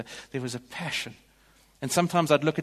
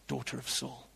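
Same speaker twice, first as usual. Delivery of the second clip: softer, breathy echo of the words; hushed whisper; 9 dB quieter than usual. Acted. Preacher echoing the text's whispers, hushed. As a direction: let it hang like a rumour.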